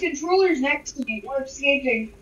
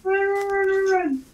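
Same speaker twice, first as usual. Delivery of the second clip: panicked yelling; 6 semitones higher than usual. Real, not acted. Fleeing the evil player.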